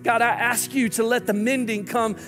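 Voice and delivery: earnest, steady prayer voice with rising pleas; pastor's closing prayer. Acted. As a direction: lift the congregation up to God in prayer.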